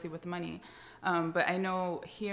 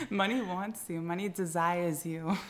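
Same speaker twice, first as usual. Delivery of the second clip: sexy podcast voice. Pretend. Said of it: "In my sexy podcast voice".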